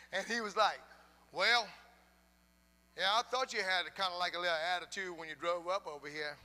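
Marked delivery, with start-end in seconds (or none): 1.3-6.4 mildly indignant retort, louder at the start; imitating mad neighbor. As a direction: play a neighbor who is a little mad. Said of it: "he was kinda mad".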